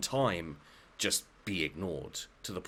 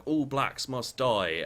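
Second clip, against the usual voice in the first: mock racist shout; 6 semitones higher, 6 dB louder, slower than usual. Acted racist quoted in argument.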